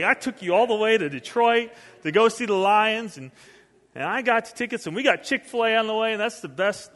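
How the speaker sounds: mock indignation, listing all you did; indignant parent. Dad scolding ungrateful son in his head, mock indignant.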